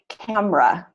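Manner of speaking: camera as CAM-ruh; two-syllable pronunciation. Shown as a demonstration. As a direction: drop the middle vowel of camera. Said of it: "only two syllables".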